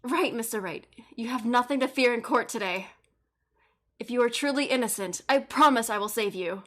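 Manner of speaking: talking with a pinched nose; blocked nose voice. Pretend. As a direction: hold the nose shut while talking. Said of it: "try to imitate a cold voice".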